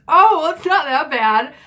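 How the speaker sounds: high, loud put-on reassurance; slow, high-pitched mock placating; mock backpedaling. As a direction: imitate a friend unconvincingly taking it back. Friend backpedals in retold exchange.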